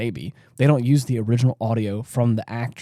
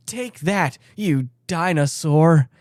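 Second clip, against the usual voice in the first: higher, slowed, wooden line reading; mock stilted dub; 5 semitones higher, slower than usual. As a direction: ham up the awkward dubbed soldier's taunt. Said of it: "the guy over the shoulder goes".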